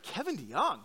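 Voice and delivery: rising, disbelieving Kevin DeYoung?; incredulous question. Retold or imitated. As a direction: ask Kevin DeYoung? as if it cannot be true. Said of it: "And I thought".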